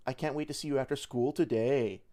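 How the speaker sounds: sarcastic-sounding cadence. Retold or imitated. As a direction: mimic a friend's cadence that comes across sarcastic. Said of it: "that sounds fucking sarcastic".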